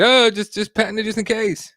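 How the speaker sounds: voicing someone casual. Host imagining someone's advice about a patent, offhand.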